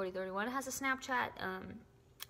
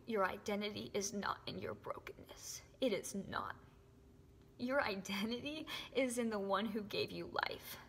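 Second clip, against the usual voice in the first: emotional whisper. Real, not acted. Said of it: "I'm so sorry that I got so emotional".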